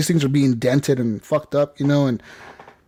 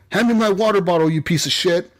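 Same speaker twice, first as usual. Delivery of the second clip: a touch of irritated demand, pitched up at first; mock angry jogger; 4 semitones higher than usual. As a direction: imitate a jogger ordering his robot around. Jogger ordering his robot around.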